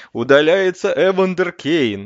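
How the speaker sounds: solemn official announcement; Levitan announcer voice. Retold or imitated. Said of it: "чтобы кто-нибудь таким голосом что-нибудь объявил".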